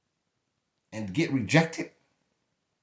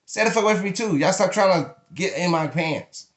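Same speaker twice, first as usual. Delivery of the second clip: angry rant; 5 semitones higher than usual. Real, not acted. Scolding church pastors, high angry rant. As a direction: tell them off with force.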